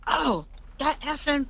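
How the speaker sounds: high-pitched imitation of grumbling; retold ranting, trailing into filler; mock cussing rant. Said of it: "carrying on and cussing and stuff".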